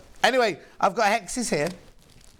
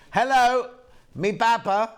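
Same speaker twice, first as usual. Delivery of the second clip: put-on Bristol accent; 6 semitones higher, 4 dB louder, slower than usual. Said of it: "Is that Bristol?".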